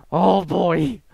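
loud, high-pitched character exclamation; Filthy Frank. Acted. Gamer doing an impression for viewers, loud character voice. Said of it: "my filthy Frank impression".

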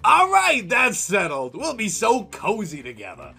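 very high, loud glee; gleeful ghost. Acted. Ghost delighted he gets to stay. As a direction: gloat with delight.

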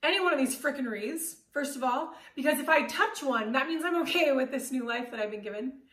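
stubborn, choked-up outburst; defiant inner rant. Retold or imitated. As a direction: dig in your heels and refuse, voice rising. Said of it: "And I just stood there like".

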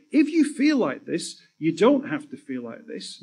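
calm reassuring message, slowly; gentle public message. Pretend. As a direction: speak it like a kind helpline beacon. Imagined beacon message.

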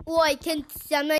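slow, drawn-out Australian accent attempt; practising an Aussie accent, slowly. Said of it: "practice my Australian accent".

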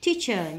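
slow "teacher" stressed on "tea"; first-syllable stress. Shown as a demonstration. Teacher marking word stress, "teacher" stressed on the first syllable. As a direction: put the weight on TEA in "teacher". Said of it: "nhấn âm một".

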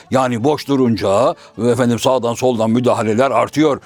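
the simple fellow works it out aloud; low shadow-play Karagöz. Acted. Karagöz explaining himself.

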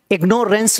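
इग्नोरेंस said as "ig-NORE-ence"; long o in इग्नोरेंस; mispronounced ignorance. Shown as a demonstration. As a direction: say इग्नोरेंस with a full "nore" in the middle. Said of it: "नहीं होता".

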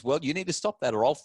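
hammed-up angry dad; mock threatening parent. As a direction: parody a parent making threats. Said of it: "the typical response is".

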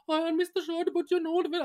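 high, mock polite agent voice; imitating call agent. Retelling the agent putting him on hold, high mock politeness. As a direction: squeak it like a chirpy call centre agent. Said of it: "She's like, goes on hold".

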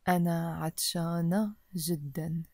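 أنا عطشانة جدًا and هل لديك ماء said quickly. Shown as a demonstration. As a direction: run both lines at a brisk pace. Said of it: "a bit faster".

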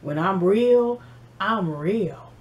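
a hint of a low, smooth seducer, trailing soft; smooth ladies' man. Fizz advertising himself to the ladies, lightly voiced smooth talk. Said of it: "He was also advertising like".

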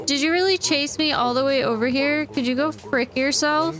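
exasperated yelling. Real, not acted. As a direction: scold the pest at the top of your voice. Creature chased him over here.

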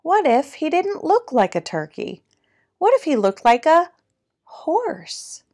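animated picture-book narration, key words punched; lively storytime reading with swooping pitch; reading to children. A narrator's reading. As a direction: read it like a playful storyteller.

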